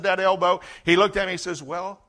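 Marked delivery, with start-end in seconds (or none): 1.6-2.0 quiet, unruffled "well"; calm. Retold or imitated. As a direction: say it calmly, letting it hang. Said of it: "very calmly".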